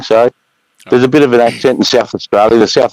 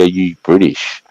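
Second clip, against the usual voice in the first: put-on American accent; slower than usual. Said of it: "Americans usually say".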